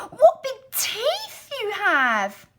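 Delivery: very high, crying out slowly; a little girl on the edge of tears; frightened girl. Acted. Girl scared of granny's face, crying out high.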